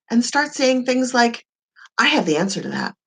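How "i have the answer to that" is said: lower, firm and sure; confident voice. Shown as a demonstration. Coach mimics empowered speech, low confident voice. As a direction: say it like you own the room. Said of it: "I'm using funny voices".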